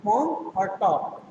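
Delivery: "palm" and "टॉप" said very slowly as separate parts; word split slowly. Shown as a demonstration. Teacher breaking the word for students, very slow. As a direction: pull palm top apart slowly. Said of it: "गादी के ऊपर".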